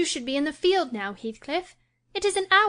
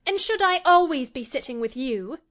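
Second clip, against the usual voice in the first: put-on higher, louder demanding girl; 5 semitones higher, 4 dB louder than usual. A narrator's reading. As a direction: challenge him, irritated. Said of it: "she demanded".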